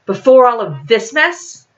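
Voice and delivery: sharp, irritated retort, rising; snapping. Acted. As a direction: throw it back at him, annoyed. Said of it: "Taylor snapped".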